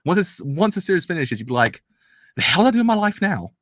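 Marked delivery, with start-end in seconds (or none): 2.4-3.5 high, exasperated cry of loss; mock despair. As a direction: wail it like the show just ended on you. Imagined despair after series ends.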